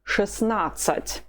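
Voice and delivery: Шестнадцать slowly, as "shesnatsat"; silent middle T. Shown as a demonstration. Teacher demonstrates sixteen, Шестнадцать with no T after "shes". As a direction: drop the first "т" in Шестнадцать. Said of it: "you do not pronounce the letter T".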